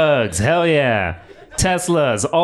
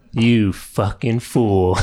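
mock villain gloat; 6 semitones lower, much slower than usual.

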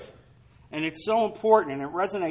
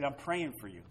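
gentle, caring; 6 semitones lower, 12 dB quieter than usual. Pretend. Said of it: "You talk to people like that".

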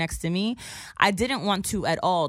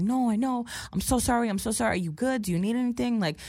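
higher, fussing apology; overly apologetic; 5 semitones higher than usual. Retold or imitated. Dude keeps checking on the woman, overly apologetic. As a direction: imitate someone eagerly checking on you. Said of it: "just overly apologetic".

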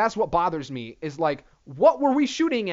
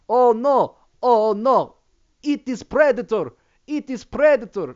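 higher, louder mock panic; mock panicked Californians; 5 semitones higher, 6 dB louder than usual. Californians fearing aliens, hammed-up higher panic. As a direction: fret it like a scared crowd. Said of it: "everybody in California thinks".

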